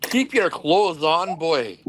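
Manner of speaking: put-on slow playful British-accented order. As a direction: slip into an English or Scottish accent. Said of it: "I break into either an English or a Scottish accent".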